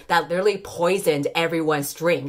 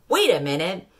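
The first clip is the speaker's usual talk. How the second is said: mock outrage; 5 semitones higher than usual. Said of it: "I would be like".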